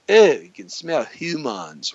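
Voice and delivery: drawn-out mock disgust; Ferengi. Host quotes Star Trek aliens, in mock disgust. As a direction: lightly mimic an alien sniffing at humans. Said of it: "Remember the Ferengi in Star Trek?".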